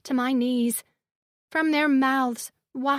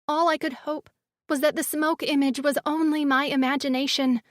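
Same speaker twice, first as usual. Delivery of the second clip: plain reading voice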